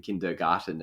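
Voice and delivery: Kindergarten with German vowels and hard g; German accent. Shown as a demonstration. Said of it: "you say it in a German accent".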